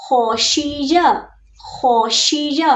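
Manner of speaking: "खौशीया" with a thick, rounded "खौ"; heavy khaa. Shown as a demonstration. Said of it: "खौ को मोटा पढ़ना है".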